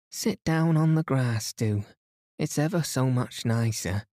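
put-on high, bright girlish voice; voiced young girl. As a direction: play a lively young nurse. Cynthia invites Hastings to sit.

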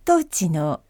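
calm, measured cabin crew announcement; flight announcement. Pretend. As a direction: announce the landing like a flight attendant. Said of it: "飛行機アナウンス風で".

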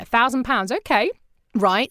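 echoing "A thousand pounds" with a light incredulous lift on "thousand"; mock disbelief. Producer echoing a client's tiny budget, mildly incredulous. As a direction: repeat "A thousand pounds" back as if you can't quite believe it. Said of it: "And I went".

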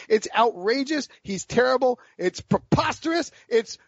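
slow, high, indignant lawyer's outrage; drawn-out, pitch climbing with each word; Jackie Chiles impression. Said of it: "That's my Jackie Childs impersonation".

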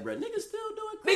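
cracking up in disbelief at the question; incredulous. Retold or imitated. Asking his cousin, high laughing disbelief. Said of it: "I was like".

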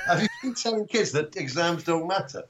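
mock an indignant head teacher's questioning. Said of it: "my head teacher said".

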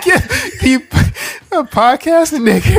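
high, loud laughing slave master voice; laughing through a mock overseer's order. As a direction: bark it out like an overseer, cracking up. Joining slave master bit.

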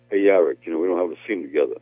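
a hint of Sylvester Stallone; Sly impression. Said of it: "the Sly impression, you do it very well".

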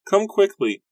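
very high, loud calls for help; a sister calling the brothers from the doorway, high and loud; frantic shout. A narrator's reading. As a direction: yell across the house in panic.

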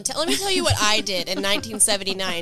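Candy voice. Pretend. Playing Candy as counselor.

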